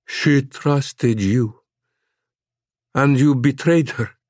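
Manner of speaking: put-on slow, hollow Slavic-accented accusation; accusing Slavic monster. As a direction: lay the betrayal on her slowly, vaguely Slavic.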